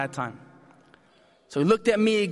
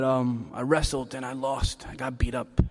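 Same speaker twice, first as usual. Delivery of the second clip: put-on sheepish kid; 6 semitones lower than usual. Hurt kid answering mom.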